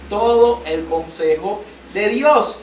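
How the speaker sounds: "todo el consejo de Dios" drawn out very slowly at normal pitch; slow settled restatement. Shown as a demonstration. A preacher closing a point to the church, very slow and measured. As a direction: let "todo el consejo de Dios" land slowly, each word spaced.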